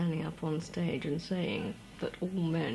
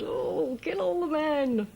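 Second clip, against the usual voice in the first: high, loud shouted slogan; high, loud cry of the slogan; inner shout; 11 semitones higher, 4 dB louder than usual. Retold or imitated. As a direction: burst out with the old slogan. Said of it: "I'm always thinking".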